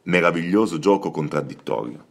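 a lightly dramatic, noir-flavoured literary reading; understated noir narration; crime-novel reading voice. Acted. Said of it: "la tua voce da romanzo criminale".

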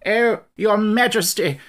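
slow, high, loud breathless cry; fleeing soldier begging his king; drawn-out frightened wail; panicked plea. Acted.

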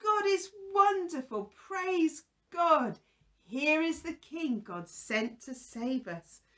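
high, loud burst of joy that settles; cheering praise. Retold or imitated. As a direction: cheer then praise, starting big and easing off. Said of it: "to say".

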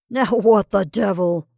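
loud, slow startled exclamation. A narrator's reading. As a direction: blurt it out, taken aback.

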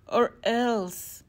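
loud, high threatening wind; shrieking wind. A narrator's reading. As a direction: menace like a storm. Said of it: "it shrieked".

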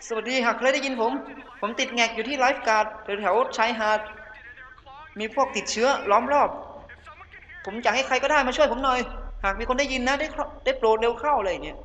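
Craig dubbed in Thai. Acted. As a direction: voice a trapped survivor begging for help over the radio. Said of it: "แต่นี่เครกนะครับ คนนี้".

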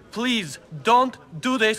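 slow, restrained plea; pleading. Acted. Underling begs his boss to spare the man, pleading slowly. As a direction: beg slowly, holding the voice down. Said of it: "I'm begging you".

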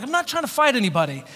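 hurried retold defensiveness; mock defensive protest. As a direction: back off hastily, speaking fast. Retold protest to aggressive drunk.

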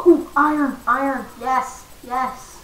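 loud, delighted gasp into ooh; thrilled at finding iron; excited. Real, not acted. Finds iron ore.

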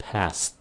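"past" said with the final S and T clear; a single clean "past", ending on a light t; pron demo. Shown as a demonstration. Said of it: "phải phát âm nó là past".

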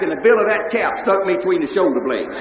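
ordinary talk

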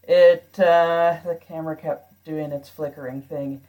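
hollow echo off bare walls; talking in a reverberant stairwell. Real, not acted. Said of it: "I am recording from my stairwell".

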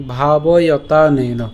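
ভাবয়তানেন said very slowly, syllables joined; careful pronunciation. Shown as a demonstration. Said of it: "এই স্বরের সাথে তানের আমরা যখন উচ্চারণ করব". (ভাবয়তানেন ধীরে টেনে উচ্চারণ)

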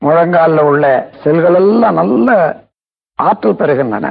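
measured meditation voice, long pauses; guided relaxation. Real, not acted. Teacher guiding listeners to relax feet and knees, unhurried meditation delivery. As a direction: guide them through it phrase by phrase, stretching key words. Leads a body relaxation exercise.

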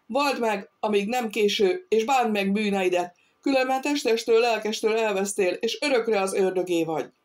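urgent exhortation. A narrator's reading. Feyerbaum urges the dying captain to confess, forcefully exhorting. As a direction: press the sinner to repent.

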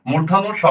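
"মূর্ধন্য স" said distinctly as a model; standard pronunciation. Shown as a demonstration. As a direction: pronounce the letter name "মূর্ধন্য স" carefully for learners. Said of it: "এটা মূলত প্রমিত উচ্চারণ হবে".

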